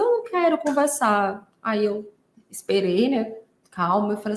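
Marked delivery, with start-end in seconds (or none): 0.0-1.5 mild imitation of a tearful child; half-acted weepy refusal; mock crying. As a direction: lift it slightly into a pretend whine. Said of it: "ela chorando, ela disse".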